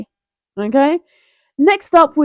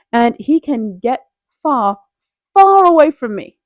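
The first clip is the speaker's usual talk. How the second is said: louder far away; 4 dB louder than usual. Real, not acted. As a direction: push him away with a loud far. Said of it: "emphatic dismissal".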